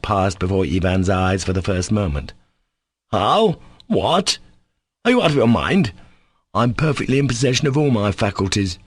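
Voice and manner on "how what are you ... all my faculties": high, incredulous outburst; crying out. Acted. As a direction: fling the questions at him in disbelief. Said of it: "Ivan cried at last".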